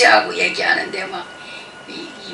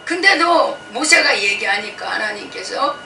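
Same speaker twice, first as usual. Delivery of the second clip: ordinary talk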